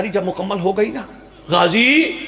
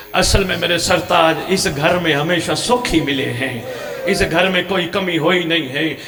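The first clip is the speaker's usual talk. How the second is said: tearful plea; 3 semitones higher than usual. Acted. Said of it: "شام والی رو کے کہتی ہیں".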